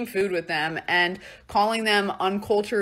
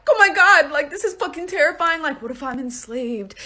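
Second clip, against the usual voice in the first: mock panic; 5 semitones higher than usual. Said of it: "freaking the fuck out".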